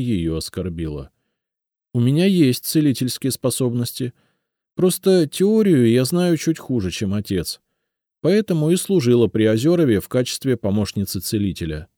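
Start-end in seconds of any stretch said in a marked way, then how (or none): 1.9-11.9 put-on lightly higher young woman pleading to be kept; тонкий девичий голос, с надеждой; Елизавета, робкая девушка. A narrator's reading. Elizaveta explains. (голос повыше, робкая просьба девушки)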